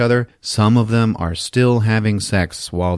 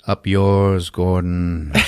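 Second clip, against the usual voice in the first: monster taunt; 2 semitones lower, much slower than usual. Acted. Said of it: "he's like".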